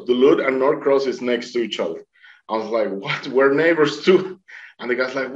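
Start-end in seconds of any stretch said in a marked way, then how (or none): 3.0-4.4 higher-pitched, delighted disbelief retold; acted surprise. Swimmer learns boatman is a neighbor, amazed. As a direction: rise high at the end, amazed.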